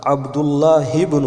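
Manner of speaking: عبداللہ ابن said slowly as abdullahi-bn, the ہ with a zer joined to the ب; slow careful عبداللہ ابن, ہ linked straight into ب; Arabic liaison. Shown as a demonstration. Teacher slowly showing how عبداللہ ابن is joined. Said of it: "ہا کے نیچے زیر اور ہا کو با کے ساتھ ملا کر کے پڑھیں گے".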